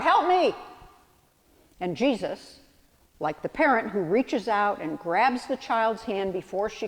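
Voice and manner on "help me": a higher, slightly louder call for help; mild retold cry for help. Peter, sinking, cries out to Jesus, a mild mock cry. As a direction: call out like a child falling off a bike. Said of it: "cried out".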